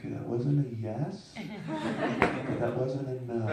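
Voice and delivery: slow, amused, laughing through it. Retold or imitated. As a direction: savor the loophole with a laugh. Wry retold thought, laughing.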